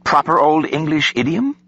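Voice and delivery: put-on high, eager young aide; beaming. A narrator's reading. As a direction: ask brightly, proud of yourself. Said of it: "She beamed".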